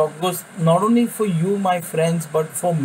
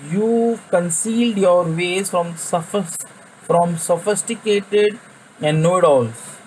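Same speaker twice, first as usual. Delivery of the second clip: scripture reading. Acted. Preacher reading Jesus' prayer to his viewers, earnest. Reading the Message version aloud.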